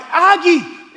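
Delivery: mock motherly exclamation. Voices mother calling to son.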